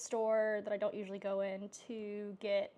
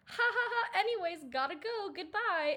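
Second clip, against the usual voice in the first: loud nervous laugh, high and fast; loud high awkward laughing goodbye; 9 semitones higher, 8 dB louder than usual. Retold or imitated. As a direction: laugh it off and flee. Retold nervous escape.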